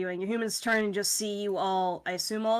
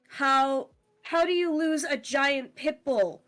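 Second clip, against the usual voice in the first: higher-pitched indignant complaint; complaining owner; 6 semitones higher, 3 dB louder than usual. Acted. Dog owner complaining that the pit bull got lost, indignant. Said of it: "your human complaining, saying".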